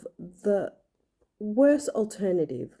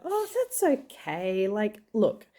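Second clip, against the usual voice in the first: lighthearted; 3 semitones higher than usual. Retold or imitated. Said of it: "I just lightheartedly said to her".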